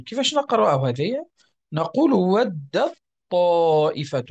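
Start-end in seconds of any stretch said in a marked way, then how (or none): 2.1-4.2 ودت طائفة with the ta merged into the ta', slow; assimilated reading. Shown as a demonstration. Teacher shows students the ta merged into ta', slow. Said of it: "ندغمها في، في الطاء".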